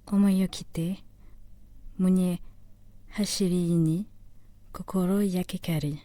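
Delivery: measured Japanese verse recitation, phrase by phrase; solemn poetry reading in Japanese; poem recital. Acted. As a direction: recite the waka with long pauses between phrases.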